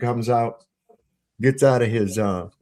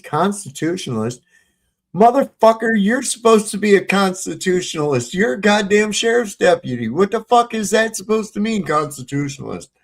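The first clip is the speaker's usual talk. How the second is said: much higher, louder, outraged yelling; retold angry yell; 10 semitones higher, 4 dB louder than usual. Telling off the sheriff's deputy at his house, outraged yell. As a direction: throw the word back at him in disbelief.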